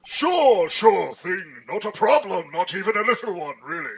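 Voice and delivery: suave hunter villain; Clayton voice. Acted. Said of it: "Oh, that's a great voice!".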